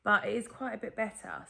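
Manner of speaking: strained, sore-throat speech; painful throat voice. Real, not acted. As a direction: talk through a painful throat. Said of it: "still really painful, to swallow and to talk".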